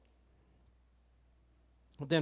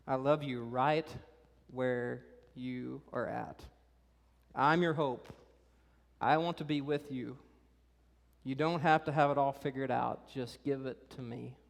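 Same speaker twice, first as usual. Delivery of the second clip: tender Jesus; 3 semitones lower than usual. Retold or imitated. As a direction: speak love gently to a hurting teen. Jesus speaking to teenagers.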